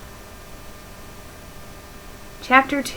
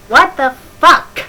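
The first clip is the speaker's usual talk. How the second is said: loud, high hammed-up scream; screamed loudly; 5 semitones higher, 10 dB louder than usual. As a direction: belt it out like the character screams. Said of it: "I screamed loudly".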